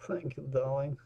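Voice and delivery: put-on light Russian accent on thank you, darling; mock Russian-accented thanks; imitating Russian accent. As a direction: echo the customer's Russian accent. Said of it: "she sounded like Russian or Czechoslovakian".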